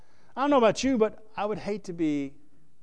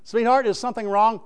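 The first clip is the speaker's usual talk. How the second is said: higher, louder acted question; solicitous husband; 7 semitones higher, 7 dB louder than usual. Acted husband asks sweetheart what's wrong, exaggerated concern. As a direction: put on a husband's anxious checking-in. Acting husband asking upset wife.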